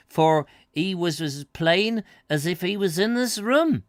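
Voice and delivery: put-on a touch of rustic old woman; old country woman. Old lady praising the broadcaster, lightly rustic.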